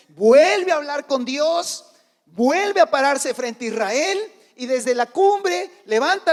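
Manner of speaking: drawn-out, high, ringing preacher's delivery; slow, emphatic pulpit storytelling; forceful preaching. Real, not acted. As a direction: stretch key words and build the story loudly. Builds the story at full force.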